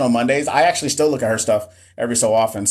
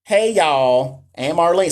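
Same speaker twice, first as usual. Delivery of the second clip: lightly put-on Mississippi accent, a bit higher; imitated Southern belle; 4 semitones higher, slower than usual. Nurse mimicking a review teacher's Mississippi accent. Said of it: "Southern Belle and everything".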